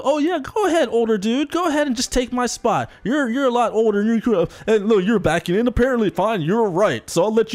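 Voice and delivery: high, sarcastically sweet giving way; mock pushover nice guy. Mocking nice guys who give up their spot, high and sugary. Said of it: "supposed nice guys".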